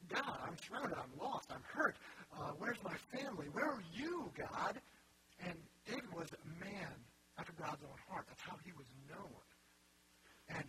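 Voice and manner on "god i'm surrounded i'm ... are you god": loud, high anguished plea, acted; crying out. Preacher voicing David's psalms to God, crying out. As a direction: cry out to God, voice swooping up and loud. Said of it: "he's crying out constantly".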